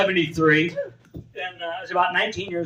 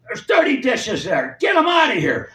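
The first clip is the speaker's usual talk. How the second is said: lunch lady yelling; 3 semitones higher than usual. Retold or imitated. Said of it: "she got to scream at all the kids".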